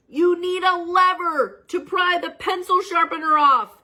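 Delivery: high, slow put-on voice; calm advisor. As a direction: state it plainly as the wise one. New voice.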